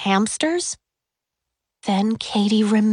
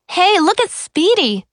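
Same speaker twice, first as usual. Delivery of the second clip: calling out; 9 semitones higher, 5 dB louder than usual. A narrator's reading. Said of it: "called out".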